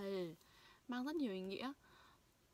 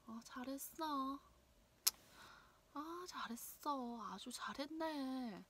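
mock praise, higher and quick; sarcastic praise; 4 semitones higher, faster than usual. Shown as a demonstration. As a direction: say it as a sarcastic jab. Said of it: "ý mỉa mai thì sao?". (khen mỉa mai)

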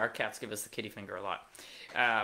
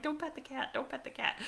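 mock warning; 13 semitones higher, 6 dB quieter than usual. Warning mom about the cat.

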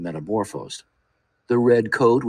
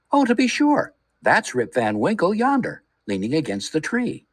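much higher, eager pointing-out; excited villagers; 8 semitones higher than usual. A narrator's reading. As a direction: call it out eagerly to the crowd.

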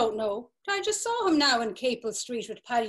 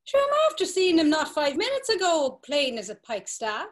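louder, higher insistence against the news; incredulous protest; 4 semitones higher, 5 dB louder than usual. Acted. Alf protests to the drinkers that he saw Paddy minutes ago. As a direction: push back in disbelief.

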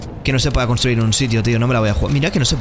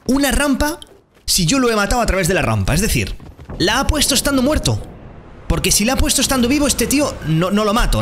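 indignant; 10 semitones higher than usual. Real, not acted. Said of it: "que alguien me explique".

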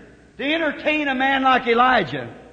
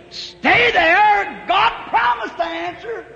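urgent exhortation; 7 semitones higher, slower than usual. Real, not acted. Urging the congregation to hold on.

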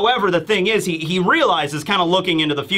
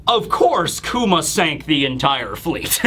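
manga narrator; 2 semitones lower, slower than usual. Retold or imitated. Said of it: "I love how the narrator comes on".

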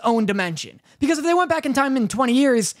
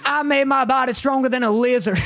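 shouted mock villain; 3 semitones higher than usual. Friend mocking the villain's line, a hammed-up shout. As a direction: belt it out as a joke. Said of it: "both times you're like".

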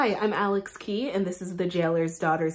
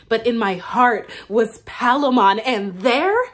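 passionate swell; 7 dB louder than usual. Acted. Passionate rise about Palamon.

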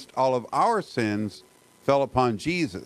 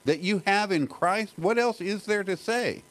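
a preacher lightly voicing Paul in awe; Paul voiced as speechless; 6 semitones higher than usual. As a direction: let Paul sound overwhelmed with nothing left to add. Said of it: "it's like he's speechless".

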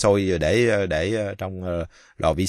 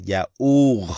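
yaourt with the R pressed and a faint t; teacher stressing the R; 4 semitones higher, 3 dB louder than usual. Shown as a demonstration. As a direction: lean on the R of yaourt. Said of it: "phải nhấn mạnh trên cái chữ R".

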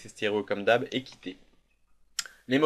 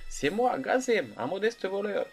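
put-on high-pitched thief with an Arabic accent; 9 semitones higher, slower than usual. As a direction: play a sly little thief in an Arabic accent. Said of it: "je lui prends un accent arabe".

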